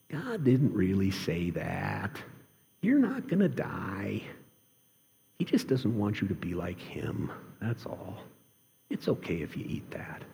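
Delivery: soft, coaxing serpent voice sinking into a whisper; a hint of a hissing tempter, softening; sly serpent. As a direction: tempt them like the serpent, hushed. Serpent tempting Adam and Eve.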